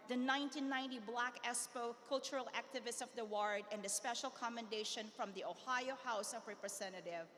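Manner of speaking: breathless from a long list; running out of air reading; out of breath. Real, not acted. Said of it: "I'm out of breath".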